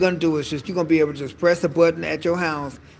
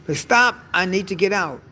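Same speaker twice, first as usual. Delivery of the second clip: a mock panicked cry at the runaway car, pitched higher; panicked yell; 4 semitones higher than usual. Rider yelling at the self-driving car to stop, in mock panic.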